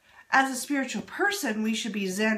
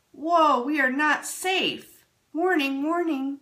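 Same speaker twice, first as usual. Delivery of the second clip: louder, higher alarm call; alarmed chakra voice; 4 semitones higher, 5 dB louder than usual. Acted. First chakra warns the body it's unsafe, mock alarm. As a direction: sound the alarm like a siren. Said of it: "our first chakra says".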